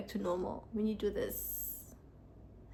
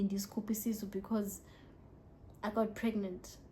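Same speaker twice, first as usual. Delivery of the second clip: whisper; 6 dB quieter than usual. Real, not acted. Confiding a sensitive detail.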